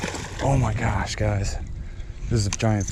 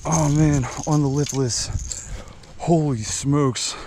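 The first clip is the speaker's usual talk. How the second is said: excited; 5 semitones higher than usual. Real, not acted. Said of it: "Oh, I'm freaking out".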